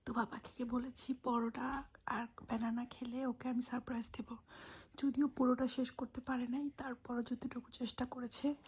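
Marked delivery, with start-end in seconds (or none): 0.1-4.4 soft unvoiced whisper; mother whispering while her son sleeps. Real, not acted. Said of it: "আমরা আস্তে আস্তে কথা বলছি".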